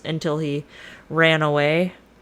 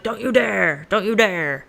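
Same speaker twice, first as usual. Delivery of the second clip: mock-frantic queen, pitch raised; freaking out; 3 semitones higher than usual. Queen begs Oedipus to stop digging, mock freak-out. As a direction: play a queen in a panic, hammed-up. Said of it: "the queen starts freaking out".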